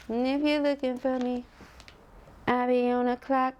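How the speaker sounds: high, playful slang voice; sassy slang. Acted. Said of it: "Notice I changed it".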